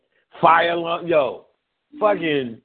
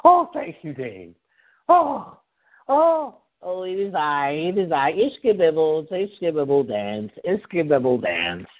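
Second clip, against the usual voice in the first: mock delighted. Acted joyful response, dance chant.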